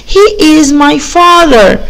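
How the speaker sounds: slow and drawn out; slow model reading. Shown as a demonstration. Teacher modelling the answer slowly for children. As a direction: read it slowly so they can repeat. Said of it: "يبقى".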